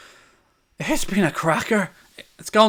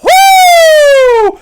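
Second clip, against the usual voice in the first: a huge high wrestler's whoop; screaming woo at the top of the voice; Ric Flair woo; 11 dB louder than usual. Retold or imitated. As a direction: let rip a full wrestling-promo woo. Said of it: "Full on Ric Flair".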